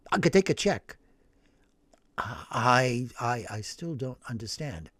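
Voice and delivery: stunned priest. Acted. Priest repeating the huge sum, halting and hushed. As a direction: stammer it out in shock.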